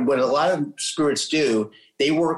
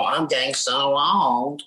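slow, drawn-out imitation of complaining; mock lament; 2 semitones higher, much slower than usual. People telling themselves they age, mildly mocked slow lament. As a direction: stretch it out in a mild mock moan.

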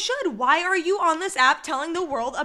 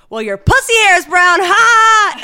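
louder, higher cheeky blurt ending in a laugh; mock blurt; 6 semitones higher, 10 dB louder than usual. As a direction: toss the line out loud and cheeky. Retelling mom's shocking remark.

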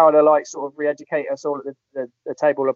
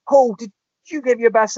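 manager voice; 9 semitones higher, 5 dB louder than usual. Retold or imitated. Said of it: "and he went".

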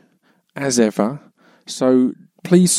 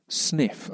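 loud sniff; 4 semitones higher, 9 dB quieter than usual. Shown as a demonstration. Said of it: "I did a big sniff".

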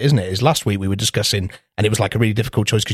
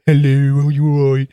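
friendly pet greeting; 4 dB louder than usual. Retold or imitated. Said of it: "if I speak to him, like".

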